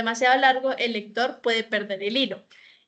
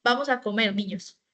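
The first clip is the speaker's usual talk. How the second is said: "Vamos a comer," then a short pause before "niños"; comma pause before niños. Shown as a demonstration. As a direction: read it as an invitation, breaking after "comer". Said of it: "si yo leo la primera frase es".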